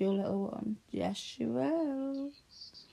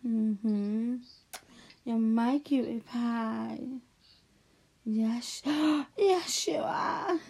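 lovey dovey; 3 dB louder than usual. Acted. Cooing baby talk to little one.

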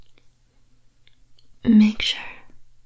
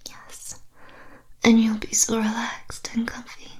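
luring spirit whisper. Acted. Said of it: "I'll put a spell on you".

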